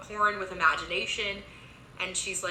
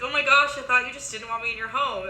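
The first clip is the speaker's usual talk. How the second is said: laughing; 5 semitones higher, 5 dB louder, faster than usual. Retold or imitated. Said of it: "And Ivy laughs".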